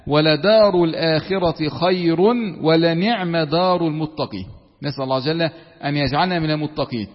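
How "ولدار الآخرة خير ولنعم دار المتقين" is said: slow, measured recitation of scripture; slow chanted reading of a holy verse; Quran recitation. Acted. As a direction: recite the verse slowly and reverently. Quran recitation within lesson.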